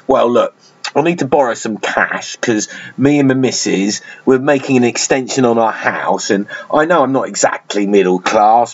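toned-down, serious South London; sober, careful South London voice. Retold or imitated. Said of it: "change their voice a little bit and act a little bit more serious".

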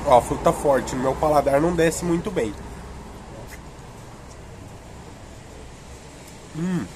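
talking between bites of popsicle; eating ice cream while speaking; mouth partly full. Real, not acted.

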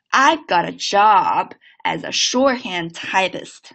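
slow linked repeat; slow second model. Shown as a demonstration. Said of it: "再来一遍啊".

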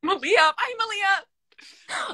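very slow, high drawn-out hi; sing-song greeting. Real, not acted. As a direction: stretch the hello playfully. Greets a viewer on live.

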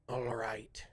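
lightly voiced character, drawn-out ALL RIGHT; hint of a character speaking under cover; quiet Voltor. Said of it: "he's speaking very quietly".

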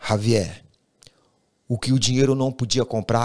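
whispered name. Retold or imitated. Reading a friend's written note. (nome sussurrado)

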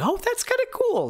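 mock excited. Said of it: "I'm like".

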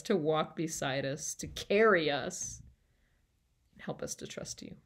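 earnest prayer to Jesus, fading to a whisper; spoken prayer. Acted. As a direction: pray it sincerely, let it die away. Leads closing prayer.

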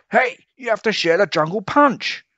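high, loud protest; whiny high complaint; squabbling ape kid. A narrator's reading. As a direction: demand a fair share. Kids squabble.

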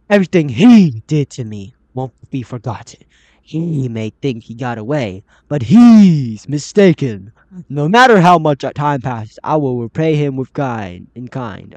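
emphatic, vengeful read with loud punches on key words; dramatic note reading. Acted. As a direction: read it like a sworn vow of payback. Reading a game note aloud.

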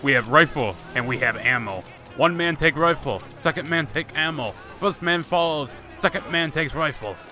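hammy, badly faked Russian accent; mock Russian accent. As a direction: put on a rough Russian soldier's accent. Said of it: "this bad Russian accent".

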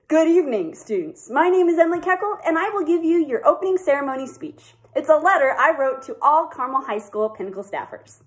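earnest speech read from a letter; formal speech. Acted. Staffer reads farewell speech to seniors, earnest and formal. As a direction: address the seniors like a commencement speaker.

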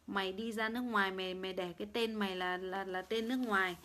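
real angry telling-off of a livestream heckler; angry rant. Real, not acted. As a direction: tear into him as if he had insulted you. Abusive rant at a commenter.

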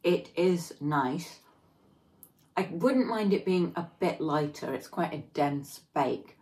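words between bites; chewing while talking. Real, not acted. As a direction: mouth partly full of cake. Seen 2: Bites cake before; lips pressed, chewing motions between words.

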